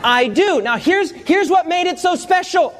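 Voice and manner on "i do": bride's eager shout. Retold or imitated. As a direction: call it out without a pause. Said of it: "She said".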